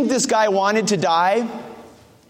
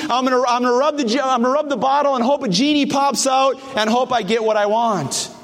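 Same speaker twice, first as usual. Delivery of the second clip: mock casual plea to Jesus; hammed-up wish to a genie; selfish pray-er; 4 semitones higher than usual. A careless believer treats Jesus like a genie, mock plea.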